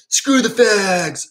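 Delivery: high, slow hateful snarl; mock anger. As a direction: spit it out like a bigot. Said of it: "And then anger".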